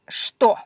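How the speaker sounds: что said slowly as shto; shto pronunciation. Shown as a demonstration. Teacher showing how что is really said. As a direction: draw out что as shto, not cho. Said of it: "people say it slightly different".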